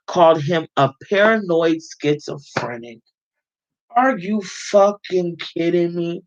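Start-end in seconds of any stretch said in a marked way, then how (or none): 4.0-6.2 slow, stunned, incredulous question; can't believe what she just read; disbelief. Real, not acted. Reacting to the doctor's insult, stunned disbelief.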